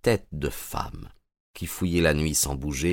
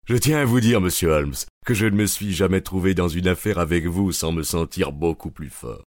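heated. Acted. Gregson continues heatedly.

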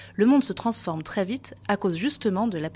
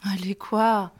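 whispering; much slower than usual. Acted. Coaxing her shy co-host.

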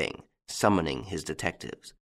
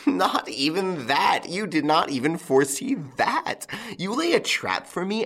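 mocking laughter; 10 semitones higher than usual. A narrator's reading. Lupin mocking after laughing.

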